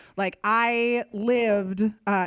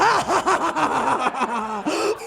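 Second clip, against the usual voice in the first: loud, higher staged ha ha; mock cackle; 6 semitones higher, 4 dB louder, slower than usual. Narrator gloating at the little cousin with a loud mock laugh. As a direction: laugh it out mockingly.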